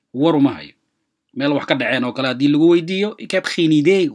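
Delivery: ordinary talk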